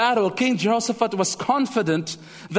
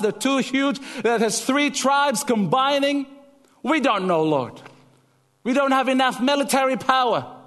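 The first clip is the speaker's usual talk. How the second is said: pleading prayer; 5 semitones higher than usual. Acted.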